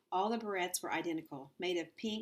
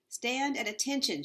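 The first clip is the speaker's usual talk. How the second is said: louder, higher drill-instructor shout; shouted order; 6 semitones higher, 4 dB louder than usual. Acted. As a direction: bark the command at the class. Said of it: "shouted Ida Nee".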